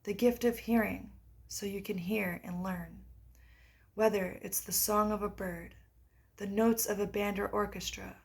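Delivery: guided meditation. Acted. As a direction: read a guided practice with unhurried pauses. Reads guided meditation aloud.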